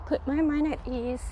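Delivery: breathless, pausing to catch air; winded walker talking between breaths. Real, not acted. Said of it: "for me being out of breath".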